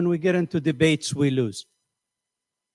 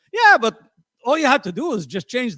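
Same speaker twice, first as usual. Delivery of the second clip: animated; 6 semitones higher than usual. Real, not acted. Sudden jump after a laugh.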